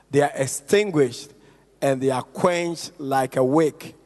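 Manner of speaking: measured, phrase-by-phrase Bible reading; scripture reading. Acted. Preacher reads scripture to the congregation, measured scripture reading. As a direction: read the verse out deliberately, pausing between phrases.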